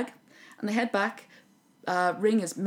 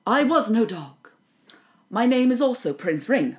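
Snatch Snatch's voice; 5 semitones higher, 7 dB louder than usual. Retold or imitated. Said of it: "in the voice of Snatch Snatch".

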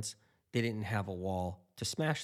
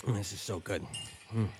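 normal talking voice

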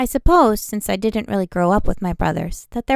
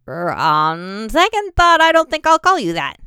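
taken aback; 3 semitones higher, 6 dB louder than usual. A narrator's reading. Bannon's comical reaction.

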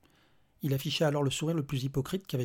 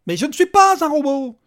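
high, loud cry of protest; outraged shout; 13 semitones higher, 15 dB louder than usual. Acted. Angry father shouts at the robot official. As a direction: yell the denial. Petri denies being a robot.

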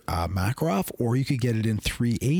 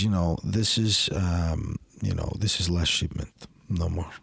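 a light imitation of a thick Russian accent, a bit lower; 4 semitones lower than usual. Russian company owner on the phone about the last shipment, in a lightly imitated thick Russian accent.

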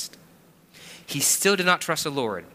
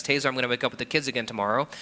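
brisk, hurried wife voice; wife's quick offer; much faster than usual. Retold or imitated. Wife quickly offering to take the morning again. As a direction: rattle it off like an eager wife. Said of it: "she goes to me and says".

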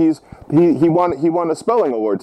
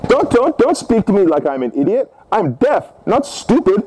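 indignant outburst; 2 semitones higher than usual. Pretend. Grandfather tells caller he's no idiot, indignant. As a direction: play the affronted old grandfather scolding a caller.

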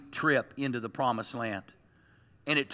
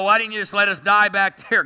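loud, whining protest; a loud grumbling cry from the desert; complaining Israelites; 3 semitones higher, 5 dB louder than usual. Acted. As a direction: throw the complaint up at God. Grumbling Israelites quoted to God.

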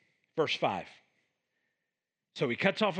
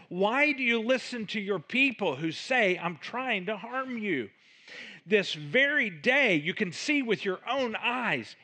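David pleading; 4 semitones higher than usual. Acted. David pleading with King Saul.

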